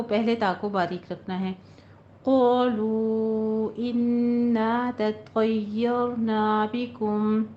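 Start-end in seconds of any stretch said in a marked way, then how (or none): 2.2-7.4 slow, melodic tajweed recitation; Quranic recitation. Shown as a demonstration. Teacher models the verse for students, slow measured chant. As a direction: chant the verse slowly and carefully. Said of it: "Quran teacher recites verse".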